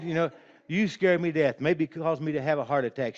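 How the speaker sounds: put-on old aunt telling her prankster nephew off, flustered; flustered scolding. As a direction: scold him while still shaken.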